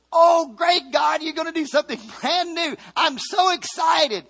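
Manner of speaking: high, loud, shouted mock joy; preacher mocking Moses as thrilled by God's plan; mock excitement. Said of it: "that is not what he said".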